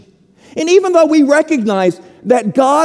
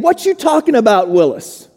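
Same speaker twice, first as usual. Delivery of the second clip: Arnold's catchphrase; faster than usual. Retold or imitated. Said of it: "like Arnold saying".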